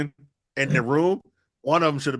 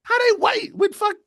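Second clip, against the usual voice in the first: much higher, louder shocked outburst; real disbelief; 4 dB louder than usual. Real, not acted. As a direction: blurt it out, genuinely thrown. Reacts to they're white.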